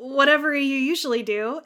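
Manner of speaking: lightly imitated stammer; Wesley's stammer. Host quoting embarrassed Wesley answering the alien, lightly stammered. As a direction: stumble a little into the first word. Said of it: "Wesley stammers out".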